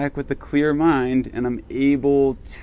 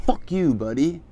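mock angry retort; 5 semitones higher than usual. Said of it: "That's how I feel right now".

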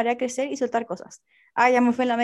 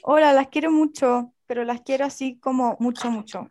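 gushing reread. Shown as a demonstration. Rereads the message more fervently.

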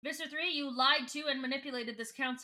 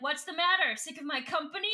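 mocking taunt; 4 semitones higher than usual. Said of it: "And Edris is like".

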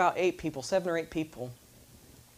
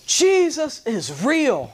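high, loud urgent calling; a new convert calls to strangers, high urgent shout; 11 semitones higher, 7 dB louder, much slower than usual. Retold or imitated. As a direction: call out to the group with urgency. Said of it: "he has this urgency in his voice".

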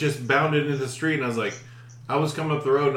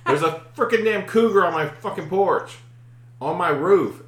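higher, emphatic retelling; exasperated report; 4 semitones higher, 4 dB louder than usual. Retold or imitated. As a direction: imitate a friend insisting to officials. Acts friend's report to wildlife commission.

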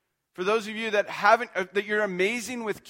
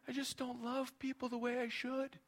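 imitated crying teen; 7 semitones higher, 11 dB quieter than usual. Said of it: "teens would come forward crying".

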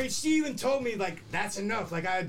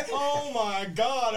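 drawn-out, laughing "oh my God"; slow laughing shock; much slower than usual. Retold or imitated. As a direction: stretch it out through laughter.

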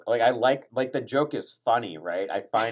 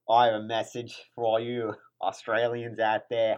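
put-on Australian accent. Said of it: "do my Australian accent".

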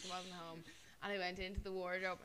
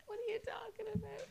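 mock whisper from mum; 11 semitones higher than usual. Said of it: "And she was like".

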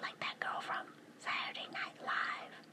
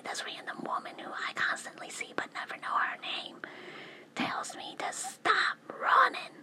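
whispering; 13 dB louder than usual. Real, not acted. Whispers through most of her talk.

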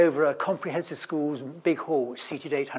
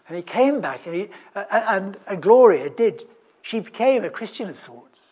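ordinary talk

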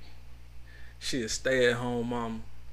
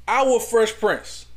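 slow, loud, high Fresh Prince; dramatic emphasis; 8 semitones higher, 7 dB louder, much slower than usual. Pretend. Host drawing out Fresh Prince, slow and loud. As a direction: draw it out mock-solemnly.

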